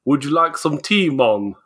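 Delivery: badly faked Jamaican accent, barely there. English mother suddenly offering tea, botched Jamaican accent. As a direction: attempt a Jamaican lilt and mostly miss. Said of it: "they have a Jamaican accent all of a sudden".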